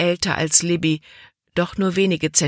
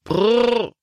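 higher drawn brrr to stop the team; a wagon driver stops his horses with a called brrr; calling brrr to horses; 6 semitones higher than usual. A narrator's reading. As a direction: rein in the horses with a call. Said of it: "rief er".

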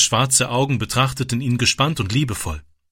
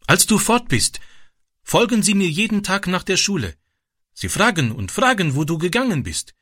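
lightly voiced young boy, higher; a boy speaking broken German, higher; shy boy voice; 6 semitones higher than usual. A narrator's reading.

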